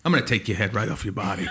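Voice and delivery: low, quick muttered threat; mock menace. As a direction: drop low for a playful death threat. Acted threat to behead the robot.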